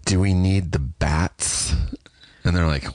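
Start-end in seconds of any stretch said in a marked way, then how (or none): 0.1-1.7 slow, measured mock executive voice; annoying network executive. Executive puzzling over her own notes, annoyingly slow. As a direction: ask it slowly, like a tiresome note-giver. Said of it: "as annoying as possible because of her job".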